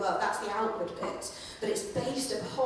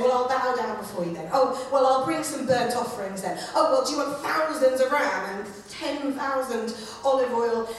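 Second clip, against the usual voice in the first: sulky, sarcastic offers, a bit louder; petulant child; 3 semitones higher, 4 dB louder than usual. Retold or imitated. Israel answering God like a sulky child, sarcastic. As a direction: huff like a resentful kid. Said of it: "it's like a kind of petulant child".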